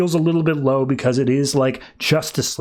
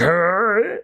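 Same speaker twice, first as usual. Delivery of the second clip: higher, drawn-out groan of pain; mock pained groan; 5 semitones higher than usual. Batman crunched over on the roof, groaning in mock pain. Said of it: "crunched over in pain".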